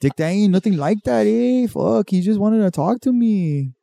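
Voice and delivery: high, pleading cholo voice; defensive cholo. Acted. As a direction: talk your way out of it. Cholo excuses himself.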